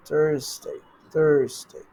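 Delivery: "Thursday" as "thurz-day", falling. Shown as a demonstration. Teacher demonstrates after noting the Z, "Thursday" as "thurz-day". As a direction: say "Thursday" with a z sound before "day". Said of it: "Thursday এর জায়গায় we say Thurs".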